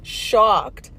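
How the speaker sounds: crying with laughter while telling the story; laughing till crying. Real, not acted. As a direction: squeeze the words out through helpless laughter. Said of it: "laughing so hard that I'm freaking crying".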